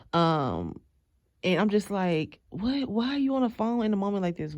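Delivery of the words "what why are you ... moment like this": high, fast disbelieving questions; can't believe he's on the phone; retold incredulous what. Baffled at phone call.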